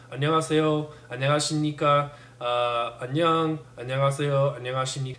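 "안녕하세요" through a barely open mouth; small, contained mouth movements on "안녕"; closed mouth. Shown as a demonstration. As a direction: keep lips and teeth close for "안녕하십니까". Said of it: "You have to talk with a closed mouth".

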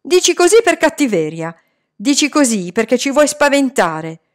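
high, loud and indignant; shouted accusation. A narrator's reading. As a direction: fire back an accusation. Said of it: "gridò Salman". (accusa gridata)

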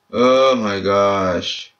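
slow, stretched oh my gosh; drawn-out despair. Real, not acted. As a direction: moan it in frustration. Annoyed at bad pulls.

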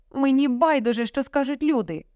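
high-pitched defiant outburst; starting to shout. A narrator's reading. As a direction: raise your voice in protest. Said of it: "теж почала кричати".

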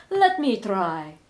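slow, loud and pushy; boastful vampire. Acted. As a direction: demand your turn, swaggering.

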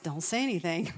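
hushed whisper, barely voiced. Preacher voicing God's hushed command, whispered. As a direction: breathe it like a secret instruction.

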